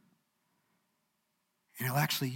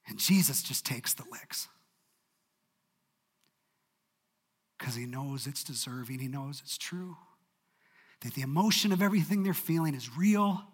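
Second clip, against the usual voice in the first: hushed. A narrator's reading. Hushed turn after Martha's outburst.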